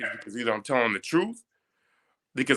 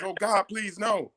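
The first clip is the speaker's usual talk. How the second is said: imitating begging; 7 semitones higher, 5 dB quieter, slower than usual. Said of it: "The guy starts crying".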